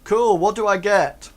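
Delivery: high, loud ruffian voice; ruffian Pete. Acted. Ruffian Pete asking his new friend, high and loud.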